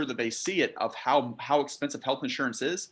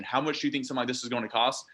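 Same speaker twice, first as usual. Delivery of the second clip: fast, rushed throwaway; fast, rushed rookie question; quick throwaway question; faster than usual. Shown as a demonstration. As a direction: toss off the bad question quickly. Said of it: "So never ask that question".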